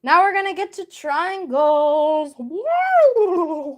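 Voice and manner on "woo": woo. Real, not acted. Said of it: "That was a horrible noise to make".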